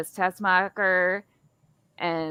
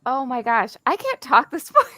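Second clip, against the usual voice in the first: laughing; 6 semitones higher, 4 dB louder than usual. Real, not acted. Stumbling over words, laughing.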